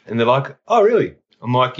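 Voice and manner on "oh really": mock surprise. Paramedics react to cannabis claim.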